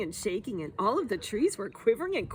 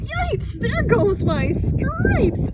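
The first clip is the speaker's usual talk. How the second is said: high, loud yelp, stretched out slowly; yell; 13 semitones higher, 9 dB louder, much slower than usual. Acted. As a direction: yelp it in alarm. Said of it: "The zebra yelled".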